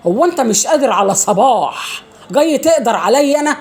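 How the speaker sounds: re-enacted indignant comeback, climbing in pitch; indignant retort. Woman answering the passenger who yelled at her, mock indignant.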